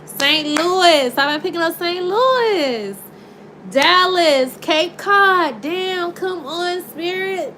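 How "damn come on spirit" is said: higher, coaxing call; calling spirit. Real, not acted. Tarot reader coaxing the spirit, higher. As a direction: coax the spirit in.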